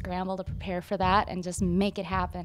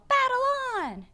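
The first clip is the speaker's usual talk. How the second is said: title called out. Shown as a demonstration. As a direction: belt out the title playfully. Calling out the song title.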